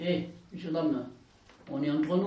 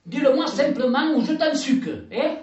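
angry threat; 5 semitones higher, 5 dB louder than usual. Acted. Lucette threatening Robert.

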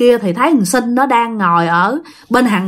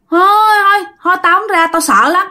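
1 scared refusal; 8 semitones higher than usual. Acted.

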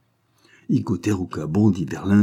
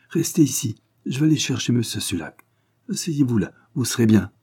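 higher, curt orders; brusque; 5 semitones higher than usual. Acted. The jeweller briskly orders the detective to sit, curt and higher. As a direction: snap out the instructions. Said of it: "fit brusquement l'hindou".

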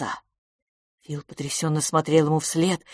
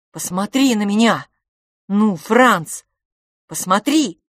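loud insistent plea; urgent demand; 4 semitones higher, 7 dB louder than usual. Acted. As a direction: make him look up. Twin demands attention.

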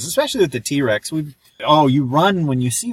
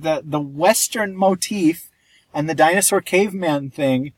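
ordinary delivery

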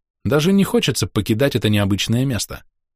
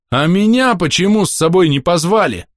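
loud indignant roar, higher; 8 semitones higher, 4 dB louder than usual. Acted. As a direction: roar it out in outrage. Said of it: "взревел я".

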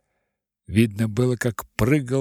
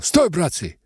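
bark. Acted. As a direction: bark the alarm. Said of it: "гаркнул".

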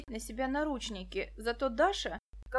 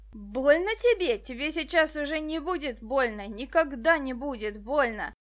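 knife raised, gloating menace; menacing threat; 2 semitones higher, 7 dB louder than usual. Acted. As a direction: promise death coldly and loud.

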